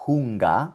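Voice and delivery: "Hunger" with audible H, as hoong-a; sounded H. Shown as a demonstration. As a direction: model "Hunger" alone in German. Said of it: "La H con la U".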